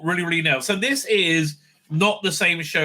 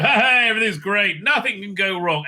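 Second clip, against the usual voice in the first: higher, lightly hammed-up jolly laughing; mock laughing cheer; 4 semitones higher than usual. Friends laughing down the street before trouble, mock cheery. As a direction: imitate carefree friends laughing along. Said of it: "all laughing, going".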